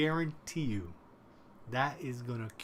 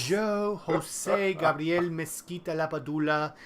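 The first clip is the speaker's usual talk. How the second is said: grand announcer; 4 semitones higher, 7 dB louder, slower than usual. Pretend. Grand introduction of Joe.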